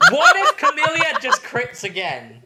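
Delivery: high, laughing question. Real, not acted. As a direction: giggle through the line. Laughing at the roll.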